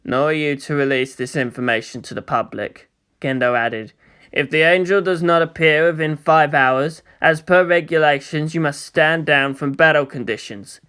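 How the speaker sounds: a touch of icy control; cold commander. Acted. Cold commander voiced low.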